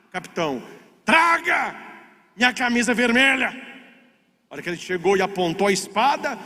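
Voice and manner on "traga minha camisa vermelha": high-pitched commanding cry; retold captain's call. Captain at coffee calls for his red shirt, shouting. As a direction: call out the familiar order.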